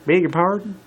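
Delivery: high, loud incredulous Southern voice. Acted. Applejack scoffing at the queen's request. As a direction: throw it back in disbelief.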